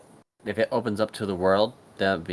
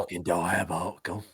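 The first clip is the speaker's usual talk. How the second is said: mock Butcher catchphrase; 3 semitones lower, 6 dB quieter than usual.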